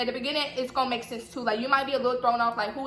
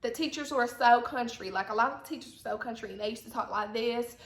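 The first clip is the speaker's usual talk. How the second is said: Southern accent demo; 3 dB quieter than usual. Shown as a demonstration. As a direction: put on a country Southern accent. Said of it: "a Southern accent is like this".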